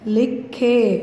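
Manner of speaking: लिखे with a long falling khe; clear khe ending. Shown as a demonstration. Teacher answering her own question, लिखे with a held khe. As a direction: draw out the e that closes लिखे. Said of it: "खे की आवाज़ आ रही है".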